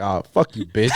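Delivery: playful retold shout; mock yell. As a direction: shout it jokingly. Retells yelling at cashier.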